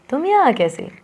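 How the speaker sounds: happy. Shown as a demonstration. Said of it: "खुशी है".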